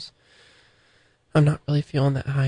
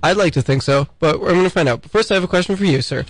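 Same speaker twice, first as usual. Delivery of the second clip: loud, hammed-up live reporter; on-the-scene reporter; 4 dB louder than usual. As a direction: project like a mock street interviewer. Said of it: "on the scene with me".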